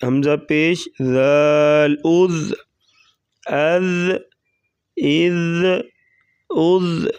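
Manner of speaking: ذال said gently, a soft ذ; اذ with a light, soft ذ; soft dhal. Shown as a demonstration. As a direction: ease into ذال softly. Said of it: "ذال کو نرمی سے پڑھیں گے".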